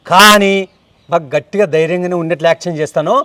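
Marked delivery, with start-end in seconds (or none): 1.1-3.1 hushed confession. Acted. Admits fear to partner quietly.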